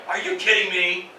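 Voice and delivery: annoyed, at normal pitch; a touch of indignation in the question; mildly angry disbelief. Acted. Man told somebody cut his tires, mildly angry. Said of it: "可能有一点生气啊".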